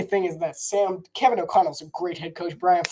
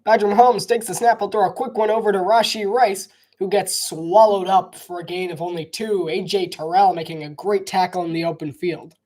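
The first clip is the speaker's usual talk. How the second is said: live play-by-play. Acted. Streamer calling his own run play, lively broadcaster. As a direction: call the handoff like a TV announcer.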